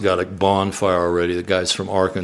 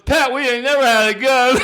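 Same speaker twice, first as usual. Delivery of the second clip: high, giggling admission; laughing. Retold or imitated. Billy tells Pat there never was a gun, giggling. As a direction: laugh through the line.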